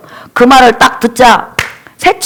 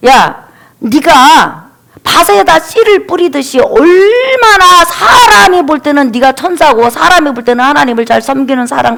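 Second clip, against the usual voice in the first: mocking rebuke. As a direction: scoff at a hypocrite, stretching the opening words. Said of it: "비웃는 거예요".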